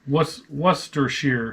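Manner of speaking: "Worcestershire" said slowly, ending in "sheer". Shown as a demonstration. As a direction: sound out "Worcestershire" as WUSS-ter-sheer. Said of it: "they say sheer".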